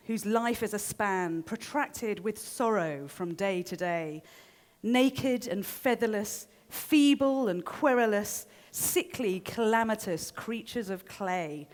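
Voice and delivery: grand, deliberate recital of verse; verse recitation. Acted. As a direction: declaim it like an ancient Greek chorus, unhurried.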